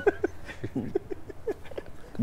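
very high, soft wheezing laugh; helpless breathless giggling; laughter. Real, not acted. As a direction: crack up almost silently. Laughing at pretend-sleep joke.

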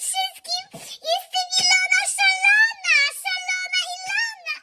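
manic self-introduction. Pretend. Vlogger proudly announcing herself to her viewers, manic shout. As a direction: crow the name like a crazy diva.

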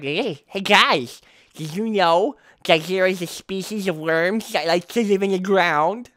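lightly voiced dopey know-it-all; mock dumb self. Gamer mocks himself telling viewers a fact, lightly dopey voice. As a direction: play a slightly goofy fact-sharer. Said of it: "I was trying to sound smart".

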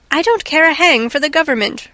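narrated roar of annoyance; mild angry roar. A narrator's reading. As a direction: roar it in exasperation, without full shouting. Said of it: "roared Richard".

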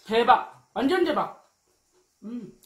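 chewing food while talking; talking between bites; mouth full. Real, not acted. Seen 0: Ate noodles at -12s; cheeks puffed, chewing while speaking.

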